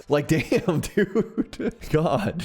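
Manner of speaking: laughing through the words; giggling at his own joke. Real, not acted.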